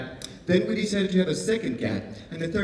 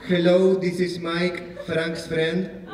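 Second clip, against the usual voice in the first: careful recital of words not understood; reading by rote. Pretend. Comic reads lines his friend Mike wrote, by rote. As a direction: read it out like learned syllables. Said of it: "taught me how to read the words".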